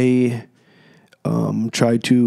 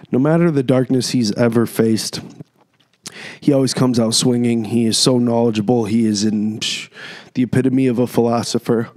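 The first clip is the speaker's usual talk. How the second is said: chewing gum. Real, not acted. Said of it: "Sorry, I'm chewing gum".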